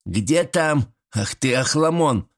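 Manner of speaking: high, mock-angry granny cry; granny yelling after him. Grandmother cries after the fleeing grandson, mock-angry. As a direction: call after the runaway boy. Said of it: "крикнула баба Стеша".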